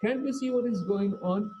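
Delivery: retold upset. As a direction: voice an upset onlooker's objection. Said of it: "everybody's really upset with this one".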